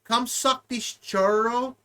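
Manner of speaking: mock flirt. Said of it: "I say".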